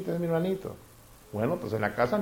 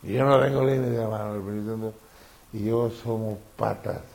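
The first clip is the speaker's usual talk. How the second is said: mock cocky believer; 3 semitones lower than usual. Mocking a careless believer.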